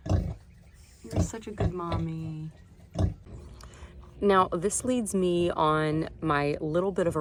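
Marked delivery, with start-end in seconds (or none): 0.1-2.5 slow, soft loving murmur; soft tender praise. Real, not acted. Repeated praise, softer.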